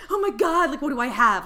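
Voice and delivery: high, loud retold panic; patient fearing bad news, high and panicky; panicked worry. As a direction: rush out the fear. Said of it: "Like, I was terrified".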